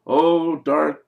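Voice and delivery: hammed-up servant's salutation; demon underling hailing master. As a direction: hail your dark master with mock reverence. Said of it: "the guy walks in and says".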